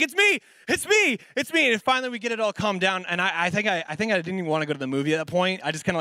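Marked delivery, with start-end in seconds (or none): 0.0-1.7 very high, strained mock plea; frantic, amused plea. Laughing dad being choked by his child, frantic high plea. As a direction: imitate someone pleading through a choking fit. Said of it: "he's laughing through this".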